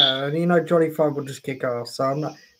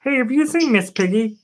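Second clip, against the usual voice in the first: higher-pitched puppet frog voice; a light frog impression, pitched up; Kermit; 5 semitones higher than usual. Frog looking for his pig, higher puppet voice. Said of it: "Love you, Kirby".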